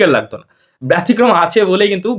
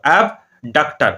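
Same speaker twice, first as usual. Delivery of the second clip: "অ্যাবডাক্টর" slow and lower, split after the first syllable; slow model pronunciation; 4 semitones lower, much slower than usual. Shown as a demonstration. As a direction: draw out "অ্যাবডাক্টর" in two separate parts. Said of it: "এরকম করে তোমরা মনে রাখতে পারো".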